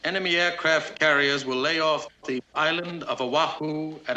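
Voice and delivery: measured courtroom reading, every phrase set apart; slow, distinct reading. Acted. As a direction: read it out deliberately for the court, pausing between phrases. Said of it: "I'll read this slowly and distinctly".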